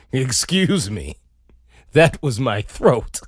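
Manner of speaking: low, slow mock admission; acted-out awkward owning-up; awkward confession. Owning up to throat noise.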